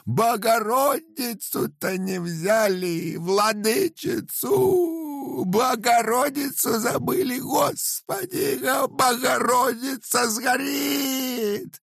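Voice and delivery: very high, slow shouted wail; lamenting. A narrator's reading. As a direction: shriek in despair as the icon burns. Old woman wails for icon.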